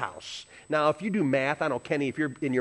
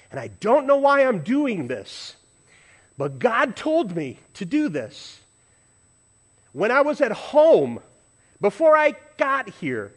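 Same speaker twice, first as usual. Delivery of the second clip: put-on hesitant young girl; 3 semitones higher than usual. Young girl's hesitant speech, acted.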